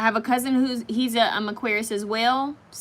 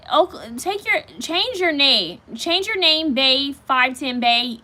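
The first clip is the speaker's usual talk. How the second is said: louder mock-stern scolding; 3 semitones higher, 3 dB louder, slower than usual. Real, not acted. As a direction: demand they change their name. Scolding a commenter.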